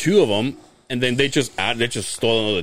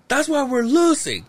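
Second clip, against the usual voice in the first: mock drunk blame. Waldo blaming the stranger.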